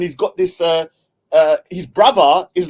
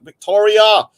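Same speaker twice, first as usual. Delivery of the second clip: raised, louder shout-out; name called out; 4 semitones higher, 6 dB louder than usual. Real, not acted. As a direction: call the name briskly to greet. Calling out a supporter's name.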